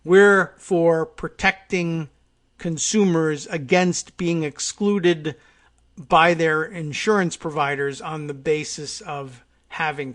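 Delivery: slow, spaced-out mock statement of a position; laboured spelling-out. Host spelling out what he's trying to say, slow and deliberate. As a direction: spell it out slowly, phrase by phrase. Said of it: "He's trying to spit out in shorthand".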